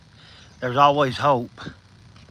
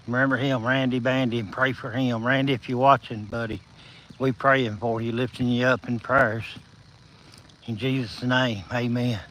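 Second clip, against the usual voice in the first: low, soft, sincere prayer; 3 semitones lower, 5 dB quieter than usual. Real, not acted. Streamer praying for a viewer in hospital, quiet and low. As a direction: pray quietly for a friend.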